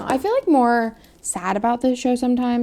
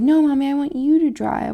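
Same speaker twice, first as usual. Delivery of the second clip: a hint of a small child's voice, louder; toddler demand; 5 semitones higher, 7 dB louder than usual. Mom imitating her son demanding she drive. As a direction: whine it like a toddler. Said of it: "he's always like".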